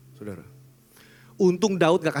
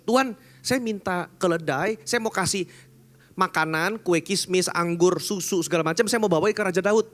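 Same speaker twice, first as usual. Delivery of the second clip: lightly voiced servant, a bit higher; eager servant's request, lightly acted; Ziba asking; 5 semitones higher than usual. Ziba voiced in retold story. (hamba yang bersemangat, sedikit diperankan)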